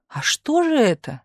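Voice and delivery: high-pitched amazement; astonished question. A narrator's reading. Misha questioning stubborn Tumanov, astonished. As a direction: let the question jump up in surprise. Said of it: "изумился Миша".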